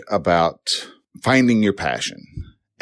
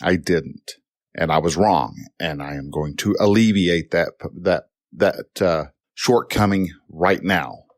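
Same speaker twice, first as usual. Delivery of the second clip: lower, even apology to mom; calm admission; 3 semitones lower than usual. Acted. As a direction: own up calmly, without arguing back. Models calm apology to scolding mom.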